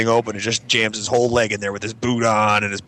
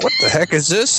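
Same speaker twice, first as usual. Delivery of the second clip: much higher, startled mock outcry; retold bewildered exclamation; 11 semitones higher, 3 dB louder than usual. Kid finding a lump under the armpit, bewildered. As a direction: act out baffled alarm, pitched way up.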